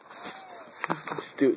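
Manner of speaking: slow breathy whisper; drawn-out coaxing whisper. Acted. Urging the cat Steve in a slow whisper.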